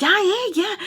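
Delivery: high mock-flustered agreement; imitated freak-out. Imitating him as she screams at him, flustered. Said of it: "he's, like, freaking out".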